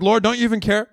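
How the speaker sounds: high, complaining whine; mock-whine at Jesus; whiny complaint.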